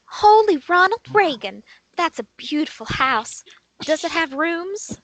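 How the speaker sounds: overjoyed. Acted. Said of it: "Bonnie is overjoyed and says".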